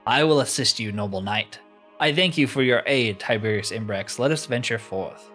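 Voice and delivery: lightly voiced gallant pledge; formal, declaimed fantasy dialogue; a touch of knightly grandeur; noble adventurer. Voices formal heroes' exchange.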